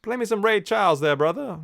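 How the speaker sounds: imitating the crows. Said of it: "hear them go like".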